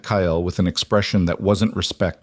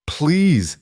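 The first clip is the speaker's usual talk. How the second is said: gasped; 7 semitones higher than usual. A narrator's reading. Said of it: "he gasped".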